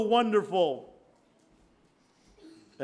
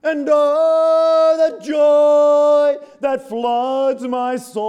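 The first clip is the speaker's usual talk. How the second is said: loud, slow, higher joyful cry; ecstatic cry; 8 semitones higher, 13 dB louder, much slower than usual. Real, not acted. Preacher testifying to the congregation, ecstatic loud cry. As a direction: let the joy burst out.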